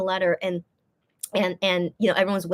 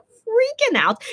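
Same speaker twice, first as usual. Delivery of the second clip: high, drawn-out fangirl squeal; mock freak-out; 13 semitones higher, much slower than usual. Vlogger describing a fan freaking out on stage, mock freak-out. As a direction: stretch it out high like an overwhelmed fan. Mimics an excited fan's freak-out.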